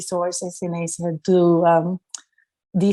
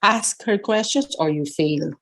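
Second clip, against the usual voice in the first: whispered aside. Retold or imitated. Exam rule told in hushed tone.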